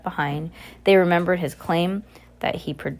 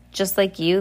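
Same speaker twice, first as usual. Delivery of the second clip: mocking. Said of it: "the villain repeated mockingly".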